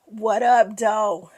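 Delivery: a Detroit hometown greeting. Shown as a demonstration. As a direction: shout it like a Detroit local. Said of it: "Toya is from the D".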